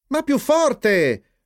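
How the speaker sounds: drawn-out, high-pitched urging; encouraging. A narrator's reading. Flip urging timid Jeep on, high drawn-out encouragement. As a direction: egg him on, high and slow. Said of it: "lo incoraggiò Flip".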